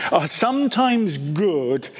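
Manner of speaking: "sometimes" given firm, deliberate weight; stress on sometimes. Real, not acted. Preacher repeating his point to believers, stressing "sometimes". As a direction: lean on the word "sometimes". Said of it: "I emphasize this word".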